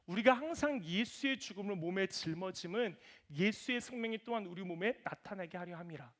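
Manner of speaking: solemn verse read aloud; reading a Bible verse to the congregation; scripture reading. Acted. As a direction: read it as holy writ.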